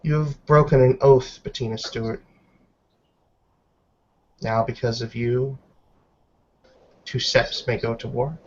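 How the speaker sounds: cold, deliberate scolding from an elder werewolf; stern Helga. Acted. Elder Helga scolding Bettina for breaking her oath, stern and measured.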